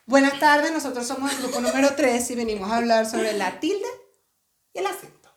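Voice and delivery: mock class presentation. Mocking a school group presentation.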